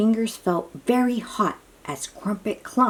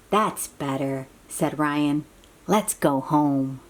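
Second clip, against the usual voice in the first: relieved; 6 semitones lower than usual. Acted. Ryan relieved after cooling.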